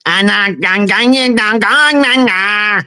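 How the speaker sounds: a small guy trying to sound tough, pitch rising; mock tough gangster. Guest mocks Filipino tough guys with a high posturing chant. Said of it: "their idea of masculinity is".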